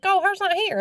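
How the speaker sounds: put-on high toddler voice; imitating the boy saying his mom's gone; little boy voice. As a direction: answer like a small kid, matter of fact. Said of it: "And he's like".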